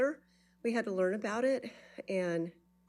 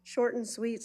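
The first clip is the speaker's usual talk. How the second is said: out of breath; 4 semitones higher than usual. Real, not acted. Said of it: "Sorry, I'm out of breath".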